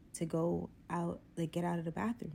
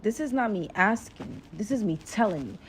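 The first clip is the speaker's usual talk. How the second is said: louder, firm imitated warning; threatening tone; 5 dB louder than usual. Date demanding her phone, threatening tone. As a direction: lay down the order with mild menace. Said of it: "using threatening tones and words with me".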